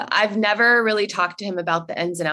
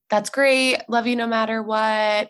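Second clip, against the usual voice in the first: imitating a loving, accepting mom, lightly raised pitch; wonderful and lovely; 4 semitones higher than usual. Mom answering her child's coming out, lovingly accepting. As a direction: give instant, unconditional approval. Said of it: "so wonderful and lovely".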